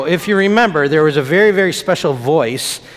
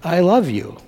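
voicing Jesus; 3 semitones higher than usual. Pastor quoting Jesus to the children, lightly voiced. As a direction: say it as if Jesus were telling the kids. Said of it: "'Cause Jesus says".

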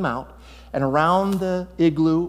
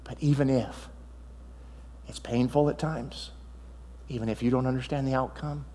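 tender appeal; 5 dB quieter than usual. Real, not acted. Preacher softly pleading with the church to trust God. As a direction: coax them gently to trust.

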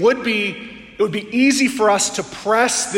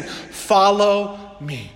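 gentle call; much slower than usual. Acted. Preacher voices Jesus' call.

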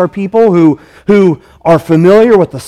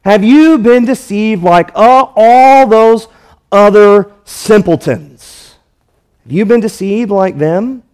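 scornful. Retold or imitated. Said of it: "That's what they're saying".

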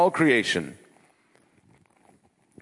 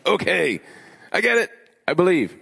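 much higher, eager admission; convinced disciple; 7 semitones higher than usual. Retold or imitated. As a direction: give in with a sudden excited grin. Voicing Thomas convinced.

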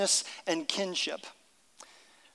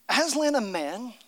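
Lucy asking; 5 semitones higher than usual. Acted. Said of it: "asked Lucy".

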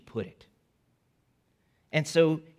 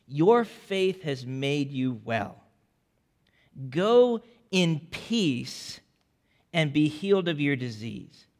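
tender; 2 semitones lower, slower than usual. Acted. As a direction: speak it tenderly, like a father to his child. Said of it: "look how tenderly he speaks to her".

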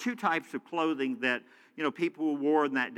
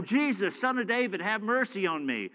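higher-pitched, mildly raised plea; imitated insistent cry; 4 semitones higher than usual. Preacher voicing blind Bartimaeus persisting, imitated insistent cry. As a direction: mimic someone who won't calm down. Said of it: "He's just, like, in it".

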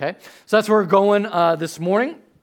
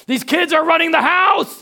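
Adrian; 11 semitones higher, 7 dB louder than usual. Retold or imitated. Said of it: "I can tell Adrian's frustrated".

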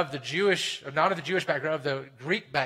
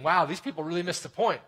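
higher and louder, a disbelieving exclamation; incredulous listener; 5 semitones higher, 5 dB louder than usual. Retold or imitated. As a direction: voice the shocked listener. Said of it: "You might be thinking".

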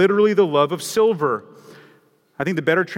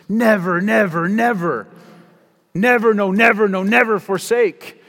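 loud, higher, ringing repetition; emphatic never; 5 semitones higher, 6 dB louder than usual. Acted. Preacher quoting the hymn's piled-up nevers, loud and exultant. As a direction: hammer every never with confidence.

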